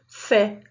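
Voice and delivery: "fé" with an open eh, slowly; slow, open-mouthed "fé"; open vowel. Shown as a demonstration. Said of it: "o som do E é aberto".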